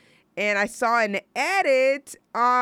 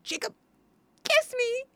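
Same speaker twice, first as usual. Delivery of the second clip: mock begging Bella. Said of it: "She's, like, begging him to kiss her".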